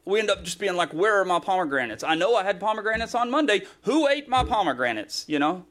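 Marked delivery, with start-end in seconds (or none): 0.9-5.2 mock complaint. Acting out complaint over missing food.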